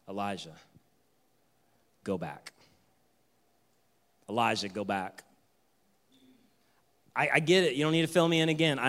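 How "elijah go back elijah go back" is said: much softer, near-whisper go back; whispered command. Acted. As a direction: whisper it with gentle authority. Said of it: "the Lord said to him".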